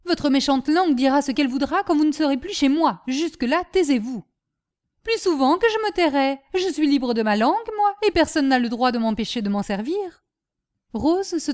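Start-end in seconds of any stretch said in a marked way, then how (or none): 0.0-4.2 raised, mildly angry scolding. Acted. Master silencing his insolent servant, angry. 5.0-10.2 raised, mildly defiant comeback. Acted. Servant refusing to hold her tongue, defiant.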